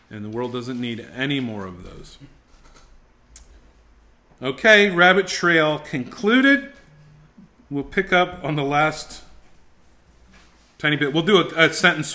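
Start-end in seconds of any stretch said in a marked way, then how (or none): 4.4-6.7 emphatic wrap-up. Real, not acted. Wrapping up a tangent.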